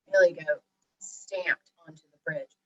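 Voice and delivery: ordinary delivery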